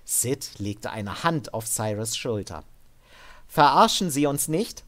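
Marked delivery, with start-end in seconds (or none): 3.5-4.8 a touch of stern warning, louder. Acted. Sid sternly warning Devin not to lie, louder. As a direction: lay down the law. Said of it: "sagte Sid streng".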